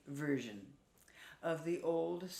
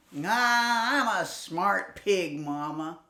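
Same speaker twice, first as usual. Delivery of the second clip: cocky piglet; 2 semitones higher, 8 dB louder, slower than usual. Acted. Piglet brushes off mother.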